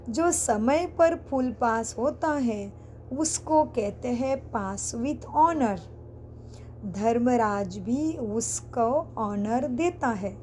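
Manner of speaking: slow, deliberate read-aloud with spaced phrases; scripture reading. Acted. Teacher reading to students about passing on time, slow and deliberate. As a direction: read it out slowly, word by word.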